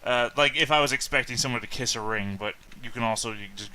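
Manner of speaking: foppish nobleman. Shown as a demonstration. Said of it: "Yeah, that foppish".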